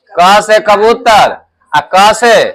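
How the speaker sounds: क से कबूतर said slowly and deliberately; slow model phrase. Shown as a demonstration. Teacher models male and female words, slow. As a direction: spell it out for the class. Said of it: "teacher models phrase for pupils".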